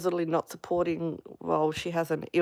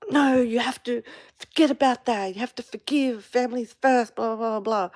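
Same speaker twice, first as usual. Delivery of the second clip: mock yelling relative; 7 semitones higher than usual. Imitating the relative who used to yell at her, mock scolding. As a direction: play the relative nagging her to forgive. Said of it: "yelling at me".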